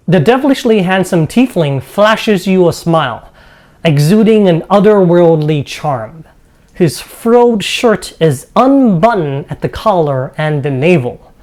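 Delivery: game master's measured narration; storyteller describing a dining hall; scene setting. Acted. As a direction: read out the room description to the players.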